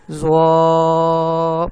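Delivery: زوا held very long and loud, mouth wide; mouth open, clear. Shown as a demonstration. Teacher showing students the clear open-mouthed زوا. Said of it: "منہ کھولیں گے".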